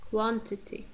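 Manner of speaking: "quantity" with stress on "quan"; careful "quantity", weak middle syllable; stress on first syllable. Shown as a demonstration. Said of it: "The first syllable is stressed".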